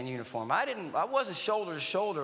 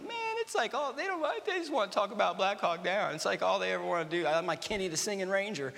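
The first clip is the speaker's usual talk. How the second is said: whining; 3 semitones higher than usual. Retold or imitated. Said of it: "Whining and complaining".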